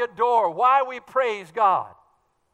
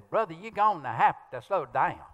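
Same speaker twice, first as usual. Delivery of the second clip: put-on Southern accent; 5 semitones lower than usual. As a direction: imitate a Southern churchgoer. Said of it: "When I go to the South".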